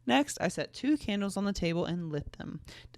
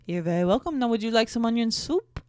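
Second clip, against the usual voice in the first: loud mock-French accent; horrible French accent; 4 semitones higher, 5 dB louder than usual. Hostess offering onion soup, bad French accent. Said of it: "my horrible French accent".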